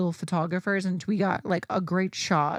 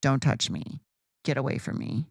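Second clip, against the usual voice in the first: low warning; 5 semitones lower than usual. Retold or imitated. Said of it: "I was so pissed".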